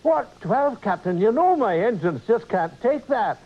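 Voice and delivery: Scottish engineer protesting, rising high on the first words; familiar Scottish Scotty. Acted. Engineer answers his captain's order, Scottish accent. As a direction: plead in a Scottish accent that it can't be done. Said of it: "Instead of hearing the familiar".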